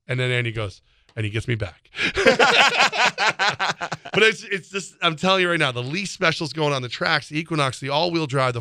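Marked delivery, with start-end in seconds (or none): 2.0-4.1 high, loud burst of laughter; big real laugh. Real, not acted. Laughing hard after Andy gets him back.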